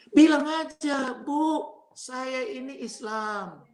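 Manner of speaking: high, slow, drawn-out coaxing; coaxing friend. Retold or imitated. Friends coaching Sen to placate his mother-in-law, coaxing singsong. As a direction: stretch each phrase out, coaching him patiently.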